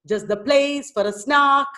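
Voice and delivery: "Just the place for a snark" with PLACE and SNARK marked; showing the stresses. Shown as a demonstration. Teacher showing where the stress comes, anapestic recitation. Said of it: "showing you where the stress comes".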